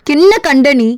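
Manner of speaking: angry yelling. Acted. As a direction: yell accusing questions in exasperation. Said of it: "ஏன் கத்துற?".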